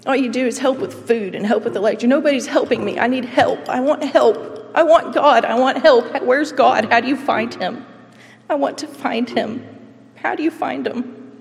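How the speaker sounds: angry, desperate yelling at a church receptionist; retold angry yelling. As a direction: shout accusations, then plead. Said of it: "I yelled at the receptionist".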